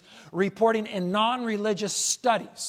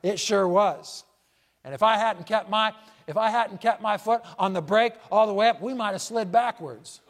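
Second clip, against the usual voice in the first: second rider; 4 semitones higher, 5 dB louder than usual. Acted. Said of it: "the second rider replied".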